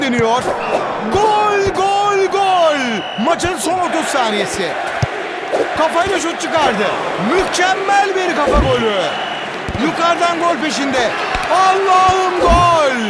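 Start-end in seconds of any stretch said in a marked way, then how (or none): 1.1-2.8 screaming football commentator. Acted. Goal call in football game. 11.5-13.0 screaming football commentator. Acted. Goal call, drawn out.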